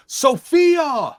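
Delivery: high, loud bellow of a name; acted full-voiced angry summons; top-of-lungs scream. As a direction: yell for someone in the kitchen. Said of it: "he screams out at the top of his lungs".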